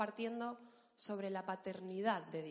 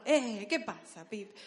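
louder swaggering Argentine "eh"; Argentine rapper flow; 5 dB louder, much slower than usual. Acted. Showing the class Argentine flow, like a rapper. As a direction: greet like a half-rapper from Argentina. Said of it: "Como si fueras medio rapero".

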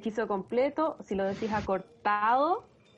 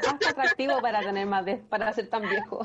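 laughing. Real, not acted. Quoting the book while laughing.

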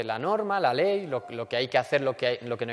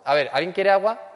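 cheerful offer; 4 semitones higher, 7 dB louder than usual. Acted. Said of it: "con una sonrisa diciendo".

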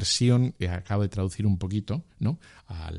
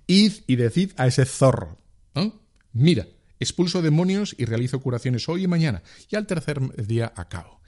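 quoting Jesus; 3 semitones higher than usual. Retold or imitated. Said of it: "me encanta".

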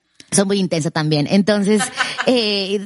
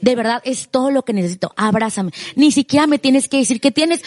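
calm tender request. Retold or imitated. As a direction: ask gently once the tears are over. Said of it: "así como ya tranquila".

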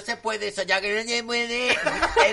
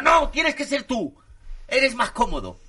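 1 tag: bratty queen; 5 semitones higher than usual. Pretend. Reina exige al mayordomo.

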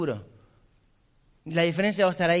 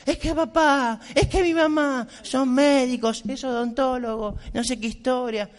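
a mild imitation of a crying girl, higher pitched; imitating crying girl; 4 semitones higher than usual. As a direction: imitate a girl complaining tearfully, half-mocking. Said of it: "me empezó a llorar". (imitación leve de chica llorosa, en tono más agudo)

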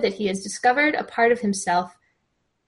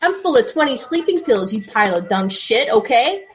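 worked-up, higher New York rant; acted outburst, pitched up but not full volume; mild yell; 4 semitones higher than usual. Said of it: "Richie started to yell".

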